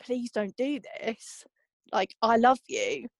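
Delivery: slow, slightly pleading retelling; understated begging, words drawn out slowly; retold begging. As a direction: lightly imitate a plea at the door. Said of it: "stand at the door begging".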